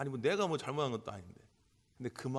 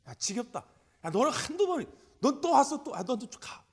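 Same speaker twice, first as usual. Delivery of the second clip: exasperated, much higher and louder scolding; fed-up brush-off; 11 semitones higher, 8 dB louder than usual. Pretend. An imagined weary Jesus dismissing a believer, exasperated scolding. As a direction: shoo a pest away with irritation.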